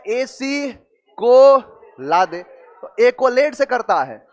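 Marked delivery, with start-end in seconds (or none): 0.1-2.4 "एसी को ला दे" slowly, word by word; slow mnemonic breakdown. Shown as a demonstration. Teacher recalls the memory trick, slow and segmented. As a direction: draw out "एसी को ला दे" with gaps between words. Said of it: "क्या शब्द बना था".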